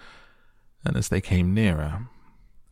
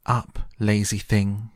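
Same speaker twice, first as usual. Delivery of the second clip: slow, higher, louder royal command; bossy queen; 4 semitones higher, 4 dB louder, slower than usual. Acted. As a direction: bark it like an impatient queen. Queen orders griffin awake.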